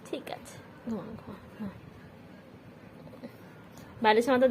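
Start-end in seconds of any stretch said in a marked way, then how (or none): 0.1-1.7 hushed, almost breathless sleep words; soothing a pet to sleep in a whisper; whispered lullaby. Real, not acted. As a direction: whisper ঘুমা softly to lull it.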